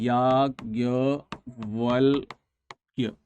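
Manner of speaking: याज्ञवल्क्य drawn out syllable by syllable, slow and low; teacher slowly sounds out याज्ञवल्क्य letter by letter; slow spelling out. Shown as a demonstration. Teacher spells याज्ञवल्क्य slowly for students, dragging each syllable. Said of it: "कैसे लिखते हैं ना".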